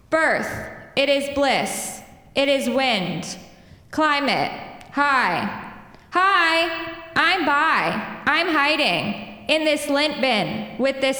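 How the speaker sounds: slow, deliberate poem reading; poetry reading. Acted. Poet reading her vowel-I poem to the audience, slow. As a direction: savour each short clipped phrase.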